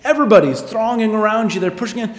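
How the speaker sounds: acted-out Peter, eyes rolled in disbelief; can't believe he'd even ask; eye-rolling exasperation. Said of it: "rolling his eyes and going".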